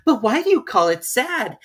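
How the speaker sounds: genuinely puzzled; Alice voice. Acted.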